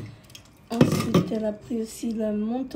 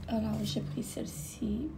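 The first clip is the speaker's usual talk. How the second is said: whisper; 4 dB quieter than usual. Real, not acted. Showing postcard, whispers to camera.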